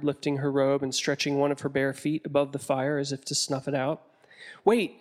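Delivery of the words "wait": restrained shout of alarm. A narrator's reading. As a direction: call out to halt them, without full volume. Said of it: "Amos shouted".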